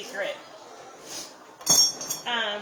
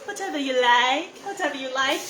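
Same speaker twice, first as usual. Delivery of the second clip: lightly imitated bride-to-be, rising lilt; a hint of the obedient film bride; imitated movie bride. Host teasing Erica about her ponytail, lightly imitated bride lilt. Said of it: "I just kept going".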